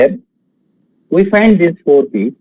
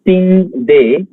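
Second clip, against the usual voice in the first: "sing day" split from its word as the last foot; detached "sing day" for counting; foot-by-foot scansion; 3 semitones higher than usual. Shown as a demonstration. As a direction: say "sing day" as a separate beat pair.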